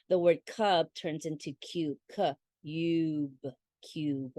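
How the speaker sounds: cube with long u, stretched; careful fading repeat of cube; long u demo. Shown as a demonstration. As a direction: say the name of u in cube. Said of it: "long vowel say its own name".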